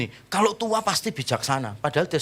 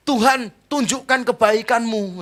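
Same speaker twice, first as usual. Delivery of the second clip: high, drawn-out plea to God; slow, raised-pitch begging; mock pleading prayer; 7 semitones higher, 4 dB louder, slower than usual. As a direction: imitate a believer wailing a request upward. Acts out believer's plea when sick.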